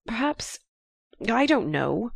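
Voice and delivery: a touch of anger, breaking out; angry outburst. A narrator's reading. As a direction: blurt it out, upset. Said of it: "he broke out angrily".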